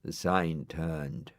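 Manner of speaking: ordinary delivery, nothing marked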